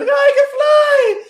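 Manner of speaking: high, slow ecstatic shout; wife shouting she can fly. Retold or imitated. Wife on mushrooms yelling from the balcony, high ecstatic shout. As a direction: yell it out like someone tripping on a balcony. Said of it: "my wife going, jumping off the fucking balcony".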